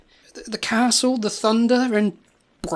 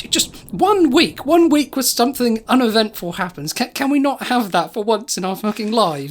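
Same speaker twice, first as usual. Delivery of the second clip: higher, stretched-out exasperation, easing off; exasperated plea; 3 semitones higher than usual. Acted. Guest begging for one uneventful week, exasperated. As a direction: plead in fed-up frustration.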